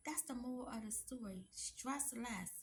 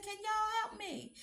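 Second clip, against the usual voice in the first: retold begging; 10 semitones higher, 3 dB louder than usual. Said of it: "too proud to beg".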